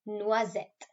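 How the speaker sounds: noisette said the French way, nwa-ZET, stress on the end; French for hazel. Shown as a demonstration. Teacher showing the class how to say noisette, clear French. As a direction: model noisette slowly for the class. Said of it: "So we say hazel like this".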